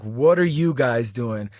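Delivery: low, slow soldier demand; stern soldier. Retold or imitated. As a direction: question them like a stern soldier. Soldiers questioning, voiced low slow.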